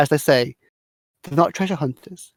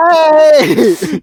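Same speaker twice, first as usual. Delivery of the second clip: loud, very high drawn-out whoop; big exuberant call, pitched way up; Dora whooping; 13 semitones higher, 9 dB louder than usual. Acted. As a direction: holler it while sliding down an escalator. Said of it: "she's the one sliding down the escalator going".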